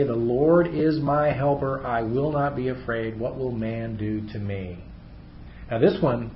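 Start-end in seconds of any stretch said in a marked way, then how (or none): 0.0-4.8 slow confident recitation. Shown as a demonstration. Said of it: "So that we confidently say".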